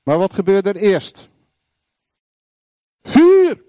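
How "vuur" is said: loud, very high cry; high, full-force yell; fiery shout. Acted. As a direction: shout it out like an alarm. Preacher cries out fire.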